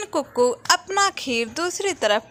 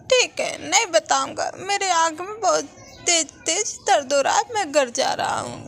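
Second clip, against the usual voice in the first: put-on lightly raised young boy voice; a hint of a young kid pleading; child voice; 5 semitones higher than usual. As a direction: speak like a small bird child to his friend. Child friends talking in story.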